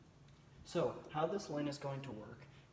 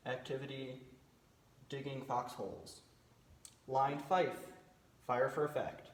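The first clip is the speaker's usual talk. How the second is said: calm radio fire call; slower than usual. Shown as a demonstration. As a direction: read each line like a radio operator. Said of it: "here's what the transmission might sound like".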